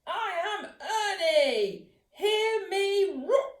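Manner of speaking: slow, high, loud boastful roar; proud shout. A narrator's reading. Ernie roaring at the barber, loud and proud. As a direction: puff up and roar it out. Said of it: "and shouted".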